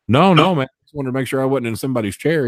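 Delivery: mock-frightened denial; scared pleading. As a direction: beg like a man caught out. Tim feigning fear of O'Hare.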